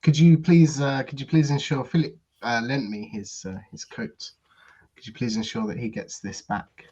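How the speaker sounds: put-on French-accented polite, halting request; thick French accent. Gaston asks Sylvie at the front desk to return a coat, thick French accent. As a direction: ask courteously in a French accent. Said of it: "his thickest French accent".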